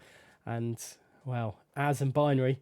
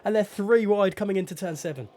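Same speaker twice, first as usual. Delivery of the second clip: excited race commentary; 3 semitones higher than usual. Real, not acted. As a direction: get swept up in the overtake. Three-way battle called live.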